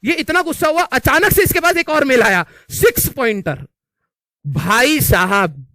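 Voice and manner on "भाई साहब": slow, stretched भाई साहब; slow exclamation; drawn-out exclamation. Real, not acted. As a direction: drag out भाई साहब for comic weight. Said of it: "drawn-out exclamation".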